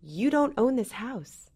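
mildly mimicked back-talk; retold child's attitude. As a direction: challenge a parent, drawn out and deliberate. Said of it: "He was giving me toot".

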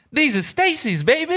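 high suave sales rep brag; smooth salesman voice. Retold or imitated. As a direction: brag it like a slick shoe rep. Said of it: "He goes".

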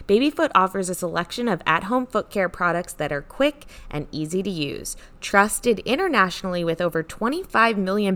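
upbeat sponsor read. Acted. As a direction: read it like a podcast ad. Reads sponsor ad.

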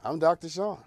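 put-on old Texas impersonation. Host introducing his segment in a mock Texas voice. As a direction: play a hammed-up Texan TV doctor. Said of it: "I'm doing this old Texas impersonation thing".

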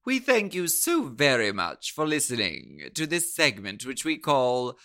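lightly put-on British announcer accent. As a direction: sign off politely in a mock-British accent. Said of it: "so many letters about this accent".

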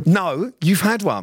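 high, slow mock accusation; retold insistence. Retold argument over hair transplant.

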